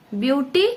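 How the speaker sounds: ବିୟୁଟି set apart as the first part; split into syllables. Shown as a demonstration. Teacher splitting beautiful for students, ବିୟୁଟି said as its own step. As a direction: stop after ବିୟୁଟି, before the rest of the word. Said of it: "ତାପରେ ରହିଲା ଫୁଲ".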